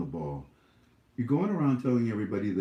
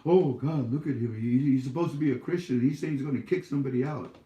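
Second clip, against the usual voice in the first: higher, faster mock outrage; mock outraged critic; 4 semitones higher, 3 dB louder, faster than usual. Vlogger mimicking critics gasping at his words. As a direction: gasp it like a scandalized churchgoer. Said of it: "mock critic reaction".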